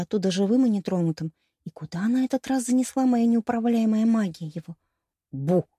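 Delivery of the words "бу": low boo right by the ear; booming bass boo. A narrator's reading. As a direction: drop low and spook her. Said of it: "произнёс громкий бас у меня над ухом".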